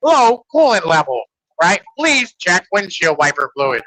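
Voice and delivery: stiff robotic car voice; flat robot car announcements. Retold or imitated. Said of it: "a little robot voice".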